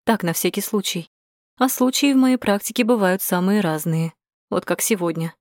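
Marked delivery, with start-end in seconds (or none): none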